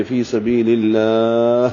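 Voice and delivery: slow فی سبیل اللہ, drawn-out aa ending in audible breath; breathed final h. Shown as a demonstration. Teacher showing hams, اللہ drawn out to a breathy h. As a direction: let the h of اللہ escape as breath. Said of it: "ہاں میں ہمس ہوتا ہے اور اس کی آواز نکلنی چاہیے".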